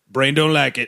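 a hint of a serial killer; creepy Wisconsin voice. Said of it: "That's like a creepy Wisconsin voice".

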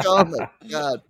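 high, laughing oh my God; laughing disbelief. Retold or imitated. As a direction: let the laugh break through. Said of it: "I'm like".

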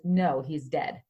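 low, matter-of-fact delivery; deadpan. Retold or imitated. Father breaking news to his daughter, deadpan.

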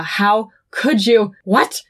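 slow, halting disbelief; retold shock. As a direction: act out stunned disbelief, drawn out. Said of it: "and then he is shocked".

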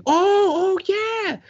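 put-on high surprised old lady voice; bakery lady suddenly recognizing the dad, high pitched; mock old lady remembering. High sudden recall.

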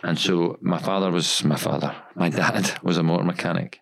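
lightly posh, polished podcast delivery; a hint of a posh radio presenter. Shown as a demonstration. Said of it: "I was putting my posh podcast voice on there".

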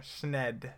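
"Schned" with an n after the sh; sounding out the N. Shown as a demonstration. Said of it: "There's an N in there".

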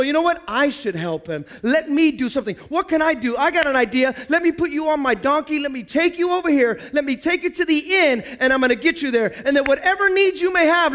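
eager helper. Retold or imitated. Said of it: "You go".

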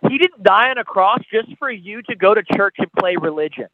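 rising and falling sermon delivery, pressing the listener; altar-call sermon voice; impassioned preaching. Acted. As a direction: preach it straight to the listener's heart.

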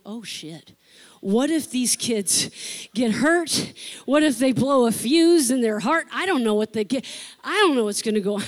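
loud anxious fretting, last line fast; Mama Bear worry. Retold or imitated. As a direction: panic like a protective mother. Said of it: "all of a sudden I got Mama Bear".

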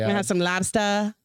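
lightly put-on Boston accent. Shown as a demonstration. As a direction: ask for lobster like a Bostonian. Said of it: "you suck at it".

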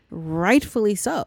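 breathy whispered aside to the viewer; conspiratorial whisper. Real, not acted. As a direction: drop to a whisper for a sly comment.

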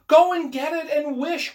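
high, loud, frantic command; excited cry. A narrator's reading. Wife orders husband to fetch the paw, excited. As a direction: cry it out, urging him on. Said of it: "quivering with excitement".

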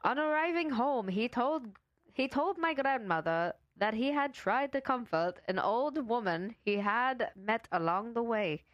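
attempted Irish accent. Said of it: "you started talking like a vampire".

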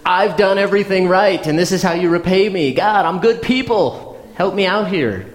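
mock whiny complaint. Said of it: "He basically says".

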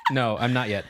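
ordinary talk, nothing marked

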